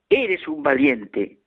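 the mountain echo answering; echo reply. Retold or imitated. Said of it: "la voz respondió".

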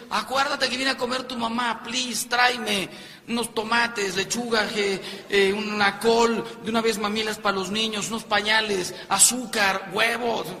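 acted wife shouting reminders after someone leaving; wife calling out. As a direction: call a shopping list from the balcony. Wife calls errands from the balcony.

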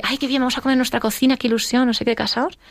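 high, bubbly excitement; excited newlywed. Retold or imitated. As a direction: gush like a happy new bride. Her own hopeful words as a newlywed. (entusiasmo ilusionado, agudo)

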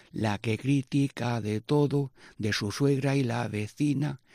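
slow, rhythmic rhyming recitation; slow rhymed ditty; folk verse. Acted. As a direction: recite the ditty in a steady beat. Repeating the coplilla.

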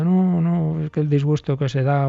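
put-on a child protesting through tears; crying child.

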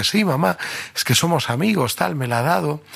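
put-on high, earnest kid explaining to mom; a hint of a defensive schoolboy; eager boy.

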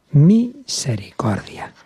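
slow whispered word, falling away. Acted. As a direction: misericordia whispered, not voiced. Pastor dwells on mercy.

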